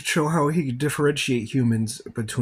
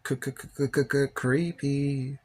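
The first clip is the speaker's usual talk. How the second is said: mock stutter; 4 semitones higher, 3 dB quieter than usual. Stutters a joke word.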